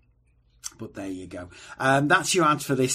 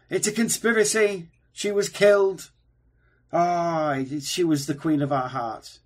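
conspiracy theorist; 7 semitones higher, 6 dB louder than usual. Acted. Mock conspiracy rant about Diana.

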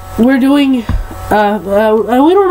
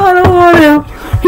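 higher, slow whining; whiny; 7 semitones higher, much slower than usual. Real, not acted. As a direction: drag it out, dreading it. Dreading gross jelly bean.

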